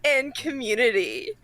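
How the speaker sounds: high, giggling laugh into the words. Real, not acted. Laughs after writing gratitude twice.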